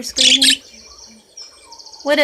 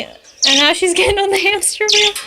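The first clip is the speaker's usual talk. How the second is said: laughing; 8 semitones higher, 6 dB louder than usual. Real, not acted. Bird climbs hamster wheel.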